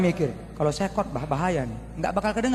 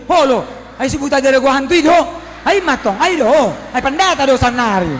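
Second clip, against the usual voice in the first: loud rowdy crowd calls, higher; mock crowd shouting; 7 semitones higher, 11 dB louder than usual. Preacher mimics mourners drowning out his sermon, shouting. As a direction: shout them on like a noisy funeral crowd.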